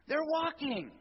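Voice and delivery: high, loud joyful cry; jubilant. Acted. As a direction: announce it with delight. Proclaiming healing.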